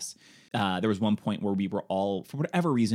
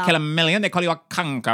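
hammy villain line; 7 semitones higher, 7 dB louder, faster than usual. Retold or imitated. Quoting Lithgow's hammy line.

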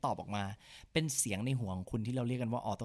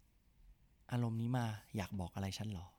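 slow soft question; 2 semitones lower, 4 dB quieter, much slower than usual. Shown as a demonstration. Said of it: "ลองถามตัวเองดูว่า".

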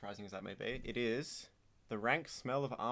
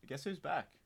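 dramatic announcer; 5 semitones higher, 4 dB louder than usual. Acted. Announcing Chet's return, mock dramatic.

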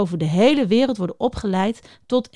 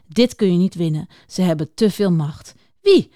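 lively read-aloud of a thriller scene; expressive storytelling voice; story narration. A narrator's reading. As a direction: read it like an exciting book passage. Reads a novel excerpt aloud.

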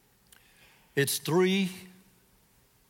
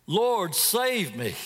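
pleading; 3 semitones higher, slower than usual. Acted. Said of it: "What was he pouring out?".

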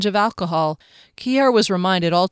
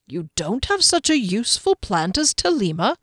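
doubtfully; 4 semitones higher than usual. Acted. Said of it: "Giskellen said doubtfully".

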